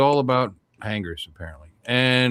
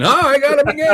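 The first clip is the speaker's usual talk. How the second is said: mock excited; 9 dB louder than usual. Mocking fisherman catching again.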